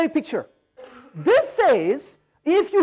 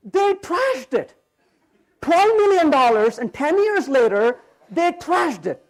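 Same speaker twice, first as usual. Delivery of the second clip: angry; slower than usual. Real, not acted. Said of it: "You can see that I'm angry".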